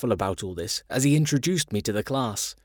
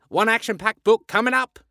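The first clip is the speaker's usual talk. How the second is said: excited announcer-like; 9 semitones higher, 3 dB louder than usual. A narrator's reading. Terry voiced in story.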